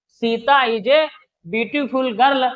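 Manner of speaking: repeating the example slowly, word by word; slow repeat of dictation. Shown as a demonstration. Teacher repeating the example for students to copy, slow. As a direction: say it again slowly so they can write. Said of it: "देखिए".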